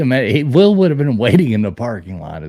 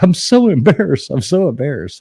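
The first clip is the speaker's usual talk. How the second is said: imitating embarrassed wife; 4 semitones higher than usual. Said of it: "She's like".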